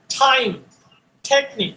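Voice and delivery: টাইম with a breathy t; aspirated t words. Shown as a demonstration. Teacher giving example words with an aspirated T. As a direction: puff air on টাইম and টেকনিক. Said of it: "আজকে থেকে বলবো টি".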